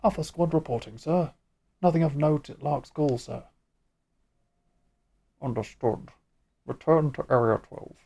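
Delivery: stiff mechanical soldier robot. Acted. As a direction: report it like a droning robot. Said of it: "Do you like my weird robot voice?".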